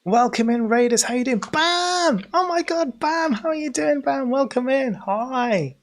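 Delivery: high, loud, bouncy hello to the raiders; big hype welcome for new arrivals; excited greeting. Real, not acted.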